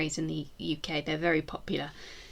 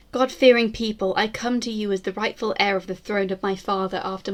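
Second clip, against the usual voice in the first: a proud Tudor queen vowing vengeance, grand and measured; defiant queen's proclamation. Acted. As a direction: declaim it like a queen swearing she shall not fall. Queen's proclamation to her people.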